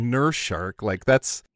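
mildly underwhelmed questioning echo; unimpressed visitor. Retold or imitated. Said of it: "And I'm like".

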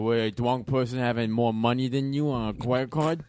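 put-on slurred drunk with a lisp; an angry drunk insisting he's sober; angry drunk guy. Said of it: "do the angry guy drunk".

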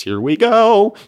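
loud, high, swooping cheer; hyped-up whoop; excited interjection. Acted. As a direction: burst out over the story, high and loud.

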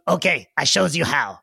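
lightly voiced goblin; a hint of a goblin, eager to show. Goblin explaining the device to the party, light goblin voice. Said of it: "he goes".

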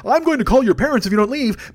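mock Democrat scolding rowdy kids; ineffectual scold. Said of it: "the ones who are going".

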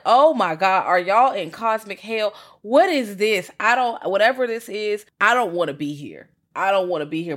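loud, pleading mock fear; mock panic. Imitating herself watching the film, loud mock panic. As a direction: freak out about being trapped. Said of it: "I'm like".

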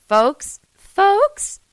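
high, loud campaign-rally "folks"; mock politician. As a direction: ham up a stump-speech politician.

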